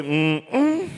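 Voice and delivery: low double "mm-mm" as a signal; deep closed-lip hum. Shown as a demonstration. Warning friends as Judas gets closer, deep hum. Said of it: "deep enough".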